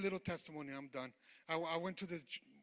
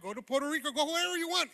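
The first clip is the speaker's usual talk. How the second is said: raised, loud retold warning; emphatic warning; 8 semitones higher, 9 dB louder, faster than usual. Retelling his warning to the man running from God, emphatic warning. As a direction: build it higher and louder.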